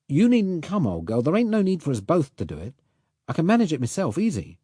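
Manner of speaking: a hint of a Cockney working man, chatty and sure; lightly voiced Cockney boatman. A narrator's reading. Allnut reassures Rose about the German boat, light Cockney voice. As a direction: talk it through like a knowing bargeman, light Cockney touch. Allnut insists on going alone.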